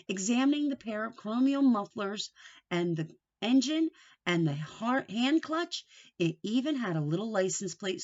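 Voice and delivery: put-on lively storybook read-aloud for kids; picture-book narrator voice; reading to children. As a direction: tell the story like a teacher at circle time. Reads chapter aloud to children.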